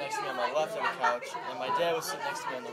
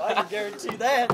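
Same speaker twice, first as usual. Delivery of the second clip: laughing; 15 dB louder, slower than usual. Real, not acted. Reading sexts aloud, cracking up.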